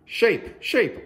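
high bright call of sheep; joyful high shout; excited call. A narrator's reading. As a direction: sing out the word like a cheer.

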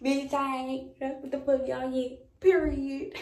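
high, triumphant relieved exclaiming; excited. Real, not acted. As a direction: celebrate the negative result. Relieved pregnancy test result.

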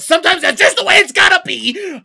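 high, loud mock-defiant outburst; defiant yell. Real, not acted. Player defends teasing a nation, defiant yell. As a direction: shout it as a proud excuse.

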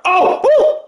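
high laughing whoop; a burst of laughing surprise. Real, not acted. Gamer laughing out a whoop at the screen.

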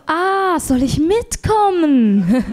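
high, slow, giggling offer; laughing offer. Retold or imitated. Offering to go to the doctor with him, giggling high and slow. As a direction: barely hold back the laugh while offering.

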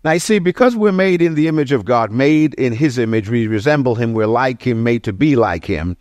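brisk run-through, phrases tumbling on without pauses; going fast. Real, not acted. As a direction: rattle through it quickly. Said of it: "I'm gonna go real fast".

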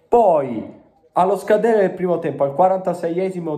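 fast, high goal build-up; breathless italian goal commentary. Real, not acted. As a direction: race toward the goal moment. Retelling the goal moment.

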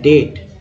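डेट said as "det", no b; silent B. Shown as a demonstration. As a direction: go straight from vowel to t in डेट. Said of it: "इसको डेट पढ़ेंगे".

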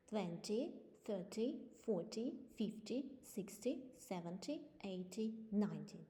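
"Twenty", "thirty" with the weight on the first syllable; teacher modelling front-stressed tens; stress on the start. Shown as a demonstration. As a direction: lean on the front of each number. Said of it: "ставимо наголос на початку".

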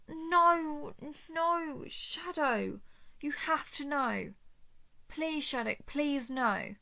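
urgent begging, first "no" pushed loud; desperate pleading. Acted. Captor begging Shadow to understand, desperate pleading. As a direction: beg with rising urgency.

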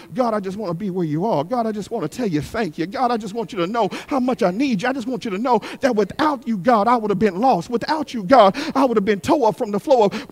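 hushed prayer, words tumbling out; soft, fast prayer. Pretend. Worshipper praying softly to God in his presence. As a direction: pray quietly and quickly to God. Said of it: "all you want to do".

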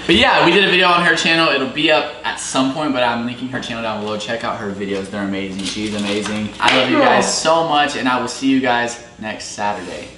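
upbeat host sign-off to camera; vlog outro. Acted. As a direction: wrap up the video for viewers.

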